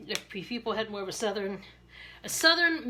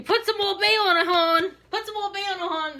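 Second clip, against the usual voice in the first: higher, louder Baltimore hon voice; Maryland accent; 9 semitones higher, 7 dB louder than usual. Retold or imitated. Maryland girl telling viewers to add Old Bay, thick Baltimore accent. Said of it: "You know you're a Maryland girl when".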